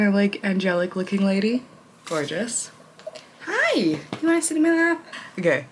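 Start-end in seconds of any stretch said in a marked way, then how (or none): 3.4-5.0 very high squeaky greeting to the cat; high cooing invite to a pet. Real, not acted. Calling the cat onto her lap.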